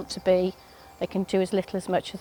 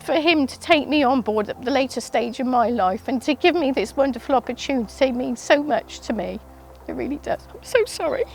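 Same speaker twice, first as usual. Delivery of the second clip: emotional; 4 semitones higher than usual. Real, not acted. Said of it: "I shouldn't get so emotional".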